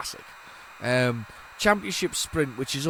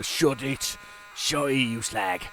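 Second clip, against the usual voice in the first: Cockney; much slower than usual. Retold or imitated. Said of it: "I went all Cockney there".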